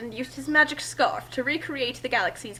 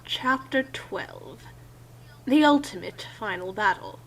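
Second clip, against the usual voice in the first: bored; 3 dB quieter than usual. Real, not acted. Reading the chapter title, flat and bored. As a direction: drone it like you couldn't care less. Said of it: "you shouldn't sound that bored".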